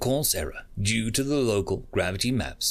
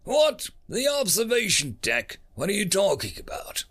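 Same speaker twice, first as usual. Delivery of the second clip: surprised; 9 semitones higher than usual. Acted. Captain startled by news.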